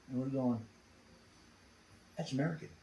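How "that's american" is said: murmured very softly, much quieter; hushed realization. Retold or imitated. Escaped prisoners hear English voices near their hole, hushed realization. Astonished whisper among hiding prisoners.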